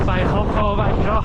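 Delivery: a hint of a high hobbit voice; lightly voiced hobbit. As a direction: say it like a plucky hobbit. Quoting a film line.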